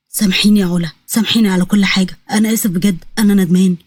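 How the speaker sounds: low, weak apology; low deathbed plea; dying, remorseful brother. Acted. Narrator voices dying Iyad begging.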